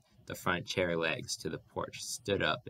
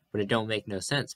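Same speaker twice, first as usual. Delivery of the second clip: a louder, higher protest; cried out; 3 semitones higher, 4 dB louder than usual. Acted. Pa protests to the ragged man, crying out. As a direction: push the words out in dismay. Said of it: "Pa cried".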